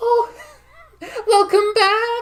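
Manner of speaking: very high, loud character voice. Narrating the scene, the speaker voices Sippy waving from the corner, very high-pitched. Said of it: "that very high pitched voice of Sippy comes through".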